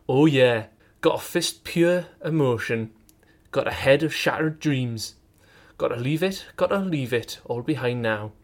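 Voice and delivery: put-on Yorkshire accent. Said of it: "how to do Yorkshire".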